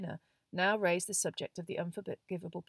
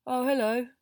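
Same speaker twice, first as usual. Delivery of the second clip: high, louder rattled greeting; unnaturally high; 6 semitones higher, 7 dB louder than usual. A narrator's reading. Neville greets friends after a shock, unnaturally high. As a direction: pretend all is well in a raised voice. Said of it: "his voice much higher than usual".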